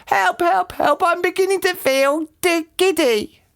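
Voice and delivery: high, giddy distress; panicked scream. A narrator's reading. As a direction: cry for help in a high voice. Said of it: "screamed Missus Twit".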